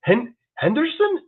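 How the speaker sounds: high, drawn-out questioning rise on the name; a clerk squinting at an unfamiliar name; puzzled clerk. Retold or imitated. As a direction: sound baffled, reaching up on each try. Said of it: "and she's like".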